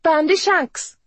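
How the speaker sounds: high, loud name-calling; shrill mocking market woman; taunting. A narrator's reading. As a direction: jeer it at him. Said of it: "Maggie taunted".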